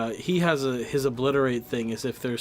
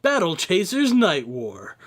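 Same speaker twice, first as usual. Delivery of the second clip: announcer voice; 4 semitones higher, 4 dB louder, slower than usual. Pretend. Announcing game title.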